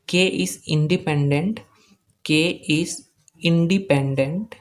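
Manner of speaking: drawn-out words with pauses between them; slow dictation. Real, not acted. Teacher stating what K is independent of, slow dictation. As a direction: spell the point out slowly for note-taking.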